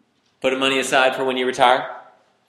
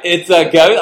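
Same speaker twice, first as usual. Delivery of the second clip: loud, high-pitched cry of alarm; mock screaming; 6 semitones higher, 11 dB louder than usual. Shown as a demonstration. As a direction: cry out as if terrified, hammed-up. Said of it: "they're screaming".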